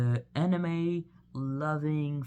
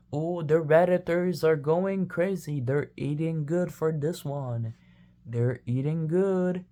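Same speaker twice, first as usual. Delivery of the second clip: excited; 2 semitones higher, 6 dB louder than usual. Pretend. Hyping the Japan coin.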